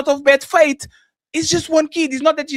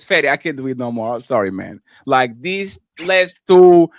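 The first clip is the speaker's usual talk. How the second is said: low, put-on voice of a worn-out wife; 3 semitones lower, 6 dB louder than usual. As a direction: play the tired wife quitting. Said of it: "And she give me six and says".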